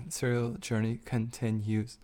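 slow, drawn-out words with an odd break in continues; weird delivery. Real, not acted. Echoing the co-host's catchphrase, said weirdly. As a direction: draw it out softly, oddly spaced. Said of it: "Why'd you say it so weird?".

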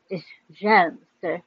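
mock-posh British accent, lightly voiced; fake British accent. Girl teasing stepbrother over breakfast in mock British accent. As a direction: correct him like a prim British butler. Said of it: "with a fake British accent".

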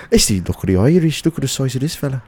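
playful put-on Irish accent. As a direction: lean into a mock Irish lilt. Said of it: "you started going to almost Irish".

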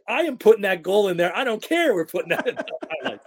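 high, loud retold demand; imitating his wife's loud insistence; insistent mock shout. Wife insisting the goal goes in, loud and high. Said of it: "She goes".

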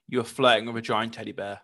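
teasing through laughter; laughing. Real, not acted. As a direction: laugh as you tease her. Laughing while teasing friend.

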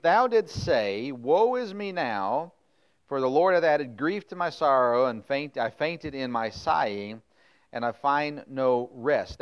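slow, drawn-out mournful reading; milk Baruch's complaint for pity; dramatic lament. Acted.

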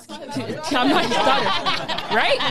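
slow, laughing through it. Real, not acted. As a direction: laugh as you say it. Laughing at own story.

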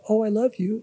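high, gushing and sweet; mean every word of it; a heartfelt Oh, I love you; sincere. Retold or imitated. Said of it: "that wasn't like".

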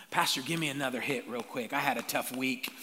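low, lightly acted plea for a fix; a hint of an addict asking his dealer; needy churchgoer. Voices churchgoer begging like addict.

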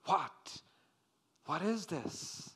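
puzzled, astonished questioning; mild acted bewilderment; amazed and perplexed. A narrator's reading. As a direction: act out a bewildered crowd's question. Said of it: "Amazed and perplexed".

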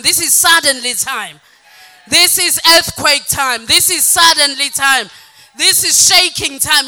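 loud, rising call to praise; preaching at full force. Acted. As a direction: stir the choir and the room to a fever. Preacher rallies congregation to praise.

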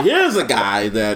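slow, lightly voiced football commentator; Collinsworth. Podcaster mocking a TV analyst's praise, slow impression. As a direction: stretch it out like a game analyst. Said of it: "nah, Collinsworth is".

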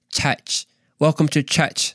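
light Aussie take on "church"; Australian accent. Pretend. Imitating the Australian speaker's welcome, Australian accent. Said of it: "imitate their accent".

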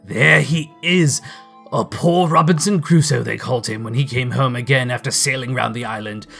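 high, loud, tumbling delight; excited cry. A narrator's reading. Scrooge recalling Robinson Crusoe's parrot, crying out excitedly. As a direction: rattle it off with boyish glee. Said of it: "cried Scrooge".

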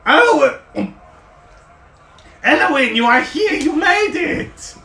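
high excited gnome, mouth full. Acted. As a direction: gush through a mouthful. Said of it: "He's got a mouthful of food".

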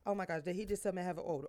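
quiet, fast offended gasp; offended woman. Pretend. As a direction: mutter it like you're insulted. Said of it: "'cause if you like".

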